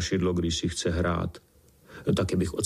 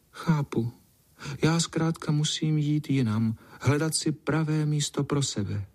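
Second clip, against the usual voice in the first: sighing cat; 6 semitones higher than usual. Acted. Cat tells the boy she must leave, resigned. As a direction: accept it with a small sigh. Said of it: "A ona vzdychla".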